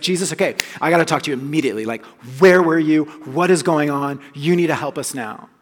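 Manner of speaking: pushy, hurried, demanding; urgent Martha. Retold or imitated. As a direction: press Jesus for answers right now. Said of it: "she's like a get-her-done personality".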